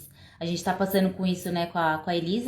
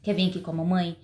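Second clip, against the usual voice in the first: empathetic parent; 3 semitones lower, 4 dB quieter than usual. Shown as a demonstration. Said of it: "demonstrar empatia".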